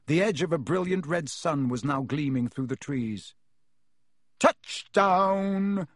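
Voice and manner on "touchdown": excited cheer. A narrator's reading. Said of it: "said Fred".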